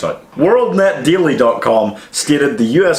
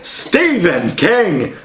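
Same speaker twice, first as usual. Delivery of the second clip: mock accusation; 6 semitones higher, much slower than usual.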